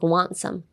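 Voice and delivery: "Want some" with the T in "Want" dropped; "Want some" with a swallowed T; silent T. Shown as a demonstration. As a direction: run "Want some" together without releasing the T. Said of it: "you should make it silent".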